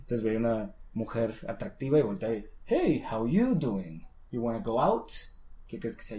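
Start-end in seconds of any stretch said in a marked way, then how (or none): 2.6-5.1 Joey. Retold or imitated. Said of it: "una frase muy característica".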